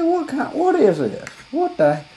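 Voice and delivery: high, baffled disbelief; mock outrage at the store setup; incredulous. Customer baffled at the shoe clerk. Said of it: "I said".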